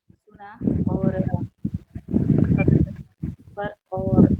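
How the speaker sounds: choppy dropouts like a failing connection; breaking up space radio. Real, not acted. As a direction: voice cutting out on a bad line. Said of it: "हाँ, कुछ आवाज cut रही है।". (टूटती हुई आवाज़)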